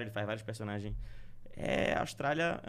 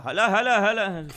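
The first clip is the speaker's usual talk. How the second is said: loud calls of olha olha; hammed-up football star cover shouting; Salah impression; 5 semitones higher, 9 dB louder, slower than usual. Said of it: "como Salah".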